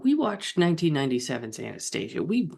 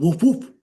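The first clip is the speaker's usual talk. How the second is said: high, loud playful woof woof; mock dog bark; 9 semitones higher, 8 dB louder than usual. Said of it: "Plot dog".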